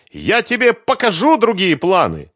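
high, loud furious nagging; angry scolding. Acted. Svetlana scolds the bass guitarist, high and angry. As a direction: tear into him. She waves at him angrily.

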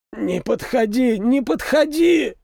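panicked wounded soldier, strangled; strained, choked voice. A narrator's reading. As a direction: beg them to stay back, voice squeezed. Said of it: "проговорил он сдавленным голосом".

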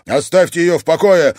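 loud, high furious command; angry order. Acted. Alf orders the brothers away, furious. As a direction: order them off her. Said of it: "злобно приказал Альф".

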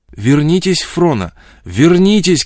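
high, loud shout after someone walking away; urgent loud call; calling after her. A narrator's reading. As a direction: call her back at the top of your voice. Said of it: "кричал он ей вслед".

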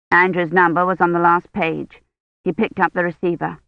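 usual speaking voice

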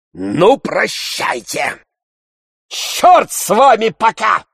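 high, loud, slow angry parting shot; angry farewell. A narrator's reading. Tarantyev leaving in anger, loud high curse. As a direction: storm off cursing. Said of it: "с сердцем заключил Тарантьев".

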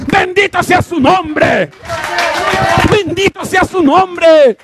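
high, slow, drawn-out acclamation; fervent praise cry. Acted. Believers who praise aloud in church, high drawn-out shout. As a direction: cry it out high, stretching each word. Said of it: "hay unos que dicen".

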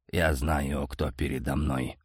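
low, soft snarl through the teeth; growling. A narrator's reading. Bitter uncle growling at the man he fears. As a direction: growl it at the unwelcome nephew. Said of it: "прорычал, брызжа слюной".

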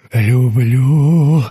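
low drawn-out love; strange loving tone. Acted. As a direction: breathe the word like a madman. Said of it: "странное выражение".

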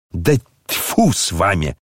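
usual speaking voice

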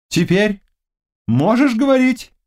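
king's high, searching question. Acted. King asks the exhausted knight, a high concerned question. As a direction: ask gently as the king. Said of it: "спросил король".

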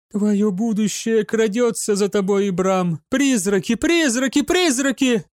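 possessed seer building to a cry; rising shrieking prophecy. A narrator's reading. (пророчество, нарастая до крика)

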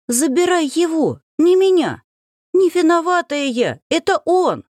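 high, loud panicked plea; hysterical begging. Acted. The heroine begs the ghoul to take the man instead. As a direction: push the blame off in terror.

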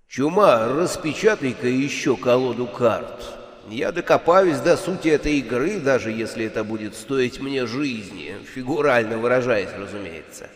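низкий твёрдый голос Смерти; упрямо, с мрачной решимостью; решительный Смерть. Acted. Смерть требует колоду. (решительный голос Смерти)

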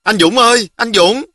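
put-on high, urgent little-girl call; calling out loudly. A narrator's reading. Girl runs up to her cousin at the riverside, calling out loudly. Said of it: "nhỏ Hường Lý đã la to".

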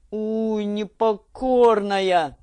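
slow, drawn-out gruff growl; a father pretending anger at his stubborn girl; old man's slow exasperated grumble. A narrator's reading.

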